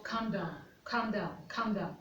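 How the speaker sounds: self-calming. Retold or imitated. Mother settling herself when upset with her son, self-calming. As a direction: talk yourself down quietly. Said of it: "I just told myself".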